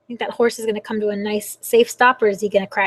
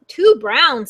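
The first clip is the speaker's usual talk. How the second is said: lightly voiced squawking rooster; mild rooster squawk; 6 dB louder than usual. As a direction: squawk it a little, storybook style. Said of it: "squawked Rooster".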